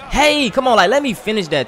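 high, loud yell at the screen; frustrated yell. Real, not acted. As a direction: yell in disbelief at the game. Yelling at the game.

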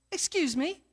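incredulous retort. Retold or imitated. Young man, taken aback by the stranger's question, incredulous. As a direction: act out his offended disbelief.

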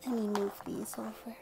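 soft whispered aside; whispering. Real, not acted. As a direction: whisper it to yourself. Aside while doing puzzle.

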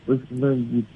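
annoyed shout. Real, not acted. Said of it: "öyle bağırma bana".

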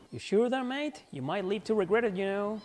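put-on a cheeky British girl warning Serge; British accent. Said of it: "My so-called ridiculous British accent".

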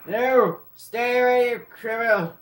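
loud, high yell to chase them off; high protective shout. Real, not acted. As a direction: shout to drive the attacker away. Dog attacked by enemy.

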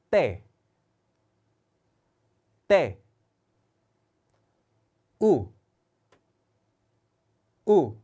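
Indonesian alphabet read slowly and clearly; letter names read aloud. Shown as a demonstration. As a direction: read each letter twice for repeating. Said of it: "같이 따라해주세요". (인도네시아어 알파벳 또박또박 읽기)

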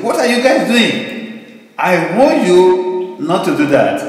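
God scolding his people, drawn out; God's stern warning. Acted. Preacher voices God warning Israelites.

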